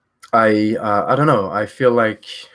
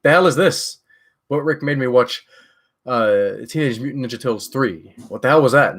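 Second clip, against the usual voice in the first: higher-pitched mock outrage; mock screaming complaint; 3 semitones higher than usual. Streamer jokes about screaming at a bad film, mock outraged. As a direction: play at being fed up, without really screaming. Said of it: "I scream".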